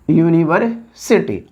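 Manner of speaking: "यूनिवर्सिटी" drawn out slowly, in parts; slow dictation. Shown as a demonstration. Teacher writing the example word for students, slow dictation.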